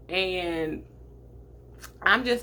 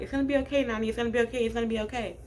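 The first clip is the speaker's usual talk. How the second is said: reassuring sister; 4 semitones higher, much faster than usual. Retold or imitated. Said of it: "she's holding my hand like".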